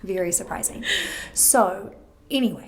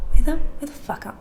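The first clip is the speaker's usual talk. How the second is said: rummaging for keys; 7 semitones higher, 11 dB louder, faster than usual. Retold or imitated. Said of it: "and I was like".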